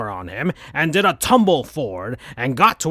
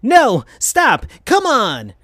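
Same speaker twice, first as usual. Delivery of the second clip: high, loud protest; mock angry yell; 9 semitones higher, 4 dB louder, slower than usual. A narrator's reading. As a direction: shout him off in anger. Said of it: "yelling, and he was getting so mad".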